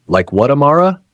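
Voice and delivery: sudden high, loud outburst; a husband erupting at his wife's secret, loud and high; exploding in anger. A narrator's reading. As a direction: blow up at his wife. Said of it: "he exploded".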